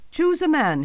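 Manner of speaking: loud commanding shout. Acted. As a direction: bellow it as a challenge. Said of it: "he shouted".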